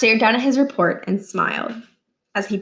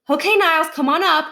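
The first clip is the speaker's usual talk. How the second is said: cheery teacher call; 8 semitones higher, 4 dB louder than usual. Acted. Teacher calling Niles up.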